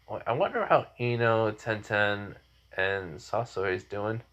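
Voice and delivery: soft, musing inner voice; thinking to himself. Acted. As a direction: wonder quietly, as if only in your head. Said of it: "And then he thinks".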